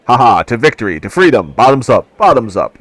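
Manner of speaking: rowdy toast. Acted. Half-orc companion toasting loudly.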